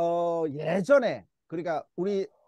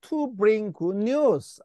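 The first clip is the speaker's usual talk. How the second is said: slow reading; much slower than usual. Shown as a demonstration. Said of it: "뭐 하기 위해서?".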